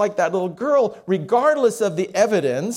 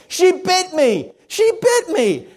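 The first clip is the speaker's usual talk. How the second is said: put-on high, loud, slow childish scream; boy screaming; 12 semitones higher, 4 dB louder, slower than usual. Little boy screaming for mom from the playroom. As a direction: wail it like a bitten little boy. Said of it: "heard her son scream".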